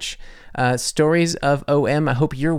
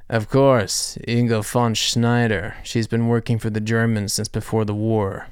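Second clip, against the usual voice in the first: Indiana Jones villain; 2 semitones lower than usual. Retold or imitated. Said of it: "sounds like a Indiana Jones villain".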